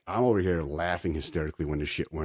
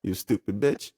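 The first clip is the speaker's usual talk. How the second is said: very high, squeaky mocking tone. Mocking Mary about half the lit tree in a high voice.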